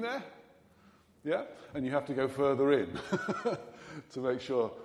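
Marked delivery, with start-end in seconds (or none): 1.7-4.7 laughing through the words. Real, not acted. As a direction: chuckle while speaking. Laughs mid sentence in sermon.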